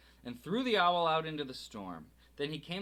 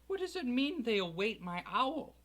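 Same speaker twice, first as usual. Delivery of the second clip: stammering Harry; 9 semitones higher than usual. Acted. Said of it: "he stammered".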